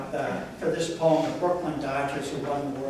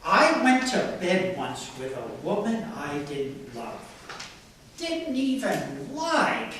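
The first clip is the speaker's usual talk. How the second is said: measured, lightly performed recital; poetry reading; slower than usual. Acted. Reader reciting a poem of past romance, measured delivery. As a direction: read it as a poem, pausing between phrases.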